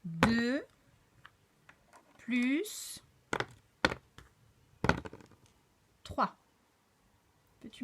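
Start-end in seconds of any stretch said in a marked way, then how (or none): 0.0-6.3 deux, plus, trois, each loud with long pauses; slow counting aloud. Shown as a demonstration. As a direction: present the sum clearly, word by word. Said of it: "regarde bien". (calcul énoncé lentement, mot par mot)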